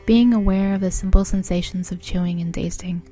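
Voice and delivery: measured, evenly paced mindfulness guide; guided meditation. Acted. Guiding a listener through eating food mindfully, guided meditation voice. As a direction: lead them through it calmly, pausing between phrases.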